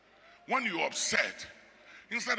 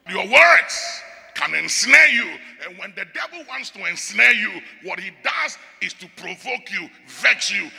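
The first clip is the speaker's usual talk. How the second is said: fiery preaching; 3 semitones higher, 11 dB louder than usual. Real, not acted. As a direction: thunder it from the pulpit. Preaching at full force.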